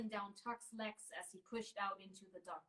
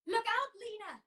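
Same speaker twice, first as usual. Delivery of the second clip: loud, high warning shout; 12 semitones higher, 9 dB louder than usual. A narrator's reading. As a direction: yell a warning across the room. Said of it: "came a shout from behind her".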